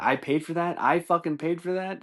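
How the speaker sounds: high, incredulous questioning; indignant pretend complaint; mock outraged taxpayer. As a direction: rise in disbelief on each question.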